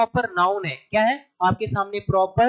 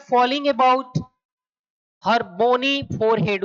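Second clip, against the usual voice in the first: drawn-out, deliberate reading of the option; slow reading; 2 semitones higher, much slower than usual. Shown as a demonstration. Teacher reading the answer option aloud to students, slowly. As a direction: spell the words out slowly for the class. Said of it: "teacher reads option slowly".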